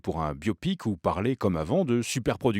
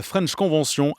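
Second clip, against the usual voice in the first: English name with a French accent; 6 semitones higher, 4 dB louder than usual. Shown as a demonstration. Chronicler mocking an English event name, French accent. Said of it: "avec l'accent français".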